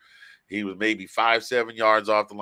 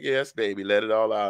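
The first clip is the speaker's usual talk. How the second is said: Madea voice. Retold or imitated. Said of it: "made my wife sound like Madea".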